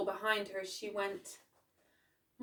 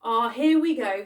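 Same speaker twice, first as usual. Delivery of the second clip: pleased find; 3 semitones higher, 12 dB louder than usual. A narrator's reading. Grandmother finds the book.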